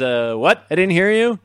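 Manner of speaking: loud acted demand to repeat it; retold challenge. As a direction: call out the muttering crewman. Kirk challenging the muttered comment.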